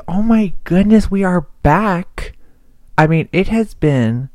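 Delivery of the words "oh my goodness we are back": high, loud, happy oh my goodness; thrilled to be back on the podcast; excited greeting. Real, not acted. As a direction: burst back in with joy.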